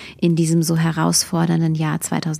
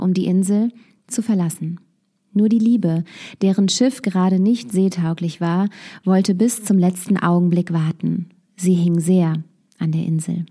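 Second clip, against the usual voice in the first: story narration. A narrator's reading. Radio host reading a Christmas fable to listeners, gentle narration.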